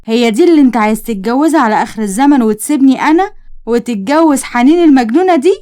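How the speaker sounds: jilted ex-fiancée turning on the groom, angrily; angry outburst. Acted. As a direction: scoff at the rival in disbelief, then flare up. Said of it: "نادين اتعصبت وقالت".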